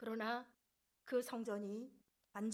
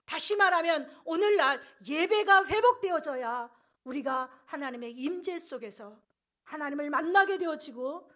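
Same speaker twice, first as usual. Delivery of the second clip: loud, emphatic sermon delivery; forceful preacher's voice; impassioned preaching; 3 semitones higher, 10 dB louder than usual. Real, not acted. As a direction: press the point home from the pulpit.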